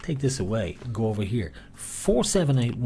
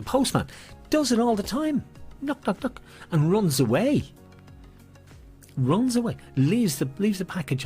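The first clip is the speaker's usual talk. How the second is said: playful high voice; 8 semitones higher than usual. Pretend. Mimics postman knocking, high pitch.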